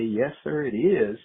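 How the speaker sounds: imitating an operator's heavy southern accent; lightly imitated southern phone operator. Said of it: "with this very heavy southern accent".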